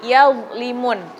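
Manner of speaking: "yadlimun" drawn out slowly, the dha thick and held; a slow reciting demo; slow demo word. Shown as a demonstration. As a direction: spell out "yadlimun" slowly and heavily.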